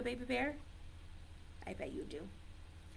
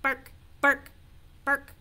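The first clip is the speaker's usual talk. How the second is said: short, sharp zebra barks; 3 semitones higher, 5 dB louder than usual. Shown as a demonstration. Teacher leading children in barking like a zebra, punchy barks. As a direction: bark like a zebra, in separate bursts. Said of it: "barking like a zebra with me".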